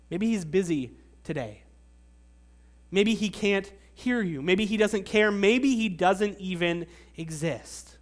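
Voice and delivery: mock-speculative taunt, measured and pointed; sarcastic needling. Nations mocking Israel's absent God, sarcastic needling. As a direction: offer each excuse as a dry dig. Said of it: "almost hear the sneer of sarcasm".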